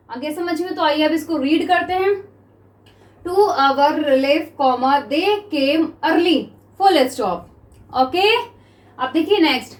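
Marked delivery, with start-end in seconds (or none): 3.3-7.4 very slow, measured dictation; spaced-out classroom dictation; dictation reading. Shown as a demonstration. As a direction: read it word by word for note-takers. Reads out dictation text slowly.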